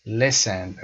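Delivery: "Listen" with a brief, lax first vowel; short i. Shown as a demonstration. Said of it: "صدای ای اینجا رو بنده کوتاه میکشم".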